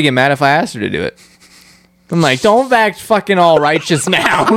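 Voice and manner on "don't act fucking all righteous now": higher, drawn-out scolding; slow, raised-pitch telling-off; mock indignant retort. Imagined retort to her.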